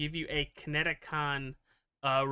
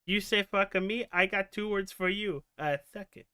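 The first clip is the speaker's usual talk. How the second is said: lightly put-on boxer voice; a hint of a tough celebrity retort; half-committed celebrity impression; Mike Tyson voice; 4 semitones higher than usual. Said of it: "I said it like Mister T".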